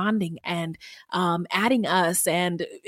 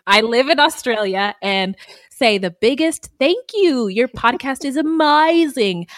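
light attempt at an Australian accent, "Hello, ladies" lilting up; a playful try at an Australian accent; 2 semitones higher, 3 dB louder than usual. Shown as a demonstration. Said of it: "I'm trying to do an Australian accent".

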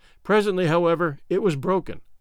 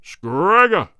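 loud roared name; 7 dB louder than usual. Acted. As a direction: roar the name as king. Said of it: "roared the king".

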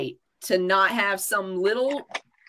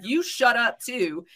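higher, drawn-out mock retort; retold bossy retort; 5 semitones higher, slower than usual. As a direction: act out a child bossing another child, slowly. Retold retort to cousin's sister.

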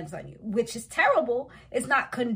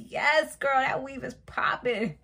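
hyped compliment; 2 semitones higher than usual. Retold or imitated. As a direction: gush over her hair like a hype friend. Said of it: "I was like".

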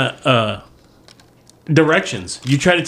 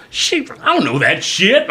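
high, slow dumb-guy voice; clueless dude; 9 semitones higher than usual. Retold or imitated. Clueless guy on the street answering, slow and high. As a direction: play it proudly clueless.

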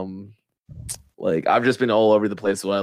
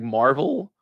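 voice cracking; 2 semitones higher than usual. Real, not acted. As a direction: voice cracks on Marvel. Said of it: "my voice just cracked for no good reason".

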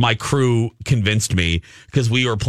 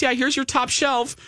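sassy; 13 semitones higher, 3 dB quieter than usual. Retold or imitated. Retelling the sassy attendant.

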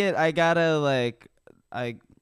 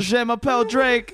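put-on French accent; 9 semitones higher, 3 dB louder than usual. Mock French intro.

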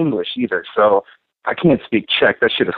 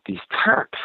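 hushed, secretive whisper; 6 dB quieter than usual. Retold or imitated. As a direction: lean in and breathe it like gossip. Imitating a racist woman's gossip.

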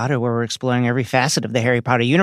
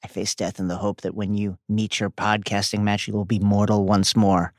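hushed dramatic letter reading; mock solemn letter. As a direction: read it like a doomed last note. Parodies Regulus's letter.

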